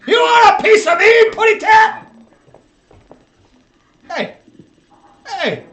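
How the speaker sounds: put-on high, loud drunken shout; belligerent drunk. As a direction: yell the challenge like a bar brawler. Taunt, shouted take.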